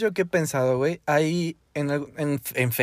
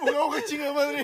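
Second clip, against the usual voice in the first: high goofy caveman voice; mock caveman cursing; 10 semitones higher than usual. Playing cavemen together.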